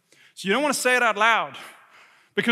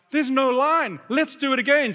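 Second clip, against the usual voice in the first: lightly voiced excited boys, a bit higher; eager kids; 3 semitones higher than usual. Boys urging their dad back onto the ride, eager. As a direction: mimic children pushing for another go.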